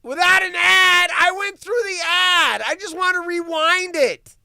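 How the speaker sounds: high, loud, near-crying frustration; whine-shout at the ads; fed up with yet another ad; exasperated yelling. Real, not acted. Fighting repeated video ads.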